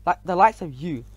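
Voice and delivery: loud, mocking brush-off; scornful snort. A narrator's reading. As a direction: sneer it loudly, then drag out surely not. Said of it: "Then he snorted".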